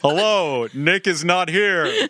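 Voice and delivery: slow robot voice on a voicemail greeting; record a voicemail as a robot. Pretend. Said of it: "I'm gonna do my voicemail message".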